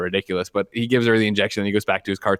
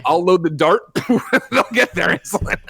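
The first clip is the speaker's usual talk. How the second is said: giddy boast; 7 semitones higher than usual. Acted. Promising Kevin he'll dart anyone who needs it, giddy laughing boast. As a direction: cackle like a gleeful vigilante.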